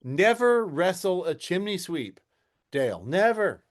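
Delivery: solemn folksy proverb, slow; mock British saying. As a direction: deliver it like old wisdom. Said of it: "weird British sayings".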